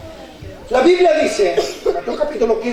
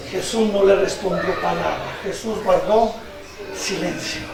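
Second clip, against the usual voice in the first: low, soft, solemn delivery; hushed; 5 semitones lower, 6 dB quieter than usual. Shown as a demonstration. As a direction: let it sink toward silence. Dwelling on Jesus keeping silence. (voz baja y solemne)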